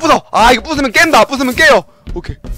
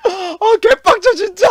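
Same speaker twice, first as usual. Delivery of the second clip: frustrated laugh; 11 semitones higher, slower than usual. Real, not acted.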